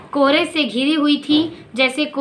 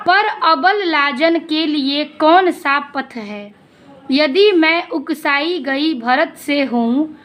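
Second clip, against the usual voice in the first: poem recital. Acted. Teacher reciting Kaikeyi's plea to the class, slow poem recital.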